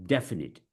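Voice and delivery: DEFINITE with DEF stressed, falling away. Shown as a demonstration. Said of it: "we stress on the def".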